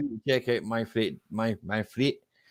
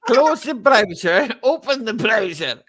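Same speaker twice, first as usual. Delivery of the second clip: loud, slow, higher call; called out slowly; 10 semitones higher, 5 dB louder, slower than usual. Real, not acted. Calling tech steps to Tim, slow and loud. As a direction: spell out each step to Tim.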